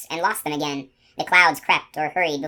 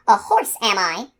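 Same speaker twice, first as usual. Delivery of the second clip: slow, higher, scornful question; scornful snort; 4 semitones higher, 4 dB louder than usual. Acted. Unicorn mocking the gardener, slow scornful question. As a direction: scoff at the idea. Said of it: "she snorted".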